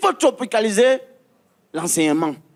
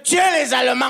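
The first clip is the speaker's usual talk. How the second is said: barked order; 2 semitones higher, faster than usual. Retold or imitated. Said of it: "quand on nous disait".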